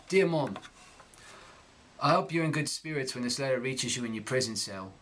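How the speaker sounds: reading in Cockney accent. Shown as a demonstration. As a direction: read the letter in Cockney. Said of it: "I'm gonna read this text".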